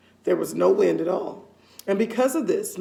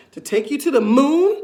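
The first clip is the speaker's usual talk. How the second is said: higher, louder startled question; mock exclamation; 5 semitones higher, 6 dB louder than usual. A narrator's reading. Husband faking alarm at his wife's words, mock surprise. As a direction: feign shock at the idea. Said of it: "exclaimed Mister Twit".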